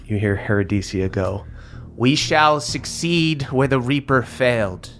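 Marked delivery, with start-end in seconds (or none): 2.0-4.9 lightly voiced cold sorceress declaring a new order; a hint of a grand, cold villain; villainous sister speech. GM voicing Herodesia to her sister, cold and grand.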